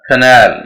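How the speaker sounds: "canal" as kuh-NAL, loud on the second syllable; stress on N. Shown as a demonstration. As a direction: schwa first in "canal", weight on the n. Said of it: "एन पे stress है". ("canal" में एन पर ज़ोर)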